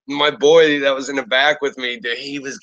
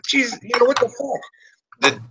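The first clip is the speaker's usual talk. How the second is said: exasperated disbelief; 11 semitones higher than usual. Retold or imitated. Cops slam him on the wall.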